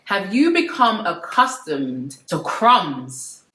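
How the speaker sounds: very slow, drawn-out question; emphatic repeat. Real, not acted. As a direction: preach it slowly, weighing each word. Repeats the line like a sermon.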